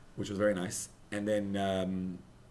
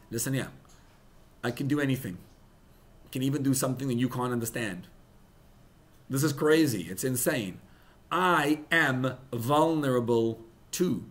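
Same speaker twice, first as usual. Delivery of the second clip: louder, firm voice of God; God speaking; 3 semitones higher, 5 dB louder than usual. Acted. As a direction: declare it as God, building in force. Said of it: "And Hashem says".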